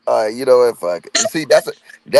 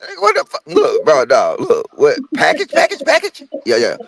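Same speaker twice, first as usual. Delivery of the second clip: mock exasperated. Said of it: "I'm like, Huh?".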